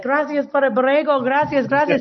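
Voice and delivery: high Spanish-accented thanks, mimicking; grateful neighbors. Neighbors thanking her for the lamb, high Spanish-accented gratitude. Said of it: "It's like".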